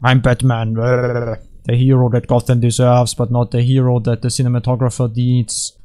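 creepy superhero growl parody; mock brooding masked hero; Batman. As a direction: put on a hammed-up dark vigilante voice. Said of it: "creepy things that happen to my voice".

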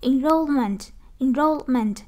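"Enrollment" stressed on ROLL, then falling; second-syllable stress. Shown as a demonstration. Teacher drilling the related noun, stress on second syllable of "Enrollment". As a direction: punch ROLL in "Enrollment" as a model. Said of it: "động từ nhấn âm hai".

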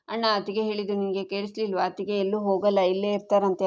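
bursting to share the good news; excited news. Acted.

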